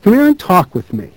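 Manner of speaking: high-pitched casual beckoning; old man's easygoing, lilting call; easy vernacular. A narrator's reading. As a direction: invite him over in easy, everyday speech. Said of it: "in easy vernacular".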